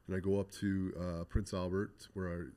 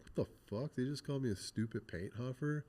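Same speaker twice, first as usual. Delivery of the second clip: angry disbelief; 5 semitones higher than usual. Retold or imitated. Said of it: "but I was so mad".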